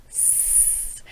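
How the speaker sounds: hissed S, tongue behind teeth; clean S. Shown as a demonstration. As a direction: model the corrected S. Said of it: "keep your tongue behind your teeth".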